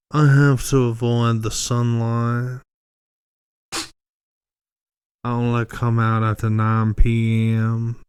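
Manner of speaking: slow, lightly Southern gentleman drawl; a hint of a pompous Southern lawyer; mock Southern lawyer. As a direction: Colonel Sanders reading Twilight, lightly done. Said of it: "he talked like a, a fucking Southern lawyer".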